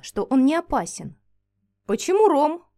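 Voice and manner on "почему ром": asked in puzzled surprise, a little higher and louder; puzzled, lifting the question; surprised question. Acted. Alexander puzzled by the creature's name, surprised question. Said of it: "удивлённо спросил Александр".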